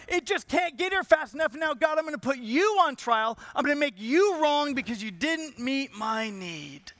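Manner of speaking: mildly hammed-up accusation aimed at God; mock indignant protest; impatient complainer. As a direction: act the aggrieved complainer putting God on trial. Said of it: "like the person just sitting there going".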